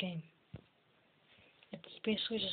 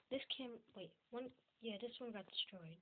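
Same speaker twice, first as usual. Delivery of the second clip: whispering; 12 dB quieter than usual. Real, not acted. Suddenly hushed while watching cameras.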